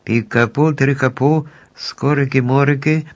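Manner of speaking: chant-like word-by-word incantation; reciting magic words. A narrator's reading. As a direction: spell read out, lifting in pitch. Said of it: "і читала далі".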